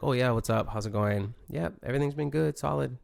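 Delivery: brief, reserved small talk; mildly stern, understated pleasantries; a little stern. Acted. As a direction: answer politely but keep it short. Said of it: "stern in the sense of".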